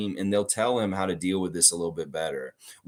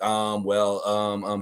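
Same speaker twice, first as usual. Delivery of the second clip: filler sounds while thinking; imitated verbal stammer; much slower than usual. Shown as a demonstration. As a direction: mimic stalling for time with fillers. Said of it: "verbal stammer that's kinda just a filler while you're thinking".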